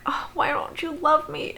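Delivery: breathy, whispered mock whine; whiny Chris. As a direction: whimper it like a pitiful brother. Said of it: "then Chris is like".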